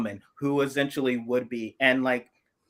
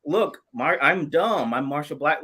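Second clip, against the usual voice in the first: mocking Southern accent; 5 semitones higher, 5 dB louder than usual. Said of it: "make fun of that Southern accent and just say".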